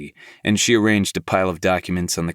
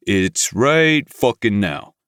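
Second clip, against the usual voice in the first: impatient; 4 semitones higher, 5 dB louder, slower than usual. Acted. Impatient boss sets deadline.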